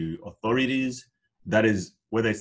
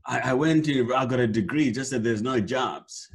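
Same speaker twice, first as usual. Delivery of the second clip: a mocking whine, a little higher at the start; mock complaining; 4 semitones higher than usual. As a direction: imitate a graduate grumbling that there are no jobs. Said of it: "sit down and complain".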